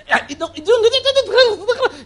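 drawn out through high laughter; words dissolving into a real laugh. Real, not acted. Pastor cracks up laughing at the idea.

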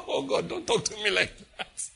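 high wail that eases down; mock dismay, begging off; alarmed pleading. David reacting to the Lord's rebuke, alarmed pleading.

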